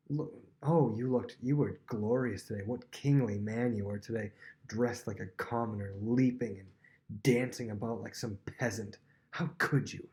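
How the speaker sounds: mildly imitated scornful wife; mock praise turning to reproach; sarcastic. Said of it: "you can hear the sarcasm".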